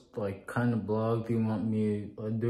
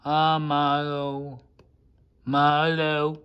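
high, slow, loud doting coo; 6 semitones higher, 8 dB louder, much slower than usual. Real, not acted. Doting on his pet Milo, high, slow and drawn out.

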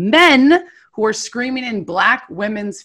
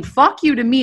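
higher, punched mock yell; retold scream; 4 semitones higher, 3 dB louder than usual. White activist cursing her to her face, imitated scream. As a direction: imitate a heckler yelling abuse. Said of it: "screaming at the top of his lungs".

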